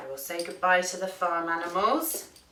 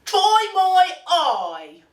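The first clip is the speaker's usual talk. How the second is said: high, loud, drawn-out piggy voice; oinking pig; 12 semitones higher, 8 dB louder, slower than usual. A narrator's reading. Pig offering the duck his letter, slow oinky voice. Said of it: "oinked the pig".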